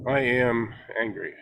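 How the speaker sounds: don't linger on "angry"; shorter angry. Shown as a demonstration. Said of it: "Cut the word a little sh-, shorter".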